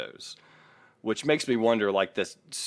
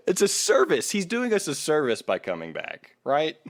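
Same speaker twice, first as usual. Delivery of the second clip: mock sarcasm; 8 semitones higher than usual. Mocking Trey's claim.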